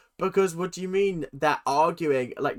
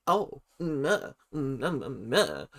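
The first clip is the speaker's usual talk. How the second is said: mindless drone; 3 dB quieter than usual. Retold or imitated. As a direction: mimic a brainless hanger-on with empty noises. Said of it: "mindless drone that is just".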